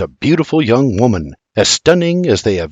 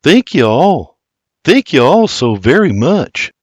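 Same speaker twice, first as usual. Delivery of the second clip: warmly; 3 semitones higher than usual. Acted. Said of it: "Warmly, he adds".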